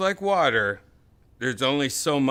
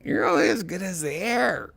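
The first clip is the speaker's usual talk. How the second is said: mock repeat; 7 semitones higher than usual. Teasing repeat of friend's line.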